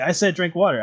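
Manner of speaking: loud playful telling-off; exasperated scolding. Retold or imitated. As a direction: snap at her like a fed-up friend. Scolding Becky over the vodka.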